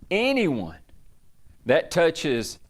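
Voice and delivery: slow proclaimed royal decree. Acted. King decrees to his land, slow proclamation. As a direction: announce it like a king. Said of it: "put a decree out".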